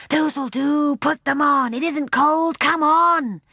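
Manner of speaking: high, loud urgent hurry; excited hurry. Acted. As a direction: rush him along. Excited girl hurrying brother.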